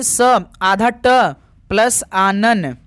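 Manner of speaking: स, आधा ट and आनन drawn out as separate parts; word split. Shown as a demonstration. Teacher showing a sandhi split to students, slow piece-by-piece breakdown. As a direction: slowly break षडानन into स, आधा ट, plus आनन. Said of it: "सही संधि विच्छेद क्या होगा".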